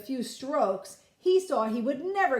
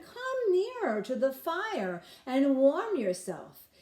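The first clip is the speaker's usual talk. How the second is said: slow coaxing; 5 semitones higher, 3 dB louder than usual. Acted. Man coaxes boy.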